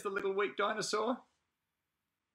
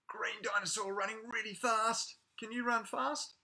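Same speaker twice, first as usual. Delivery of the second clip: whisper; 5 semitones higher than usual. Acted. Whispering to kids.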